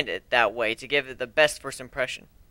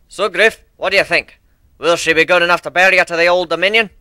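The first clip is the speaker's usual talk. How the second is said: a lightly voiced old shipbuilder, louder and eager; proud old minotaur; 3 semitones higher, 8 dB louder than usual. Old minotaur asks Griff about his new airship, proud and eager. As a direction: show off your ship to Griff with pride.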